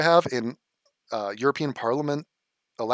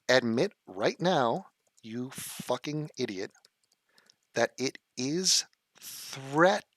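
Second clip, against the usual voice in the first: slow, quiet, venomous demand; slow simmering rage at a chatter; slow seething contempt; 3 dB quieter, slower than usual. Real, not acted. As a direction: drag out each insult with contempt.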